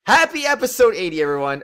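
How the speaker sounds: high loud happy cheer; excited cheer. Real, not acted. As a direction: celebrate it out loud. Celebrating episode milestone.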